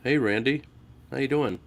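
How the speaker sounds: bored, deadpan imitation of a greeting; mock how dull the hello was; flat mocking hello. Mocking the host's greeting to Randy, deadpan and bored. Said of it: "and you're like".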